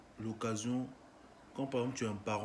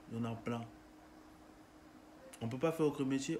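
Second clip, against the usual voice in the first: building indignation; 3 semitones higher than usual. Real, not acted. Rising angry rhetorical questions.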